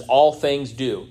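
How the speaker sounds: "All things do" said slowly, weight on ALL; stress on ALL. Shown as a demonstration. Preacher showing the Greek word order, slow emphasis on "All". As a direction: lean on "All" and draw the phrase out. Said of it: "it matters for emphasis".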